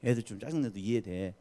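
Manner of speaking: low, soft coaxing murmur; softly voiced, indulgent inner excuse. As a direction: soothe as a quiet thought in the head. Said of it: "그러면 속으로".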